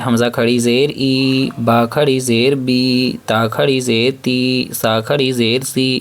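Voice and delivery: slow recitation with ای بی تی سی held long; drawn-out long ee. Shown as a demonstration. Teacher reciting to pupils, slowly stretching each ee. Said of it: "یا مدہ کی طرح کھینچیں گے".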